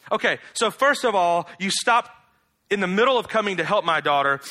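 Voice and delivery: a mother lashing out at the man she trusted; outraged mother. Acted. Jairus' wife voiced in outrage.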